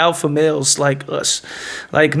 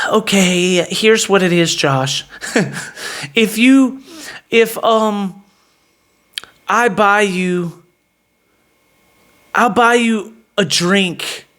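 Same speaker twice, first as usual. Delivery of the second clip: hesitant, halting bargaining; submissive; much slower than usual. Retold or imitated. Woman aside bargaining for her purse, imitated submissive. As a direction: offer it meekly, with slow pauses.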